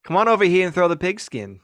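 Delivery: a failed attempt at an Australian accent; bad Australian accent. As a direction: put on a clumsy Australian accent, up a little. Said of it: "that was the worst Australian accent of all time".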